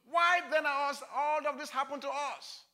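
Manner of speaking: a touch of Gideon's aggrieved questioning; arguing with God. Acted. Preacher voices Gideon questioning God, mild complaint. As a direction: press each why, mildly aggrieved. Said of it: "He's arguing with God".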